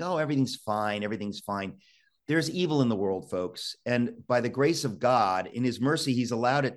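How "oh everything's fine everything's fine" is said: mock complacency. Mocking complacent Americans, shrugging and fading away. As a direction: brush it off, trailing away. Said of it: "We kinda think".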